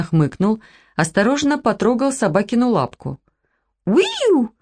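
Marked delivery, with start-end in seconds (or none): 3.9-4.5 sharp little dog squeal, much higher; high whimpering dog yelp; high puppy yelp. Acted. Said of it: "воскликнула собачка".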